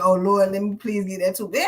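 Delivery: pleading prayer; begging the Lord, hammed up; mock desperate prayer. Mocking a last-minute prayer.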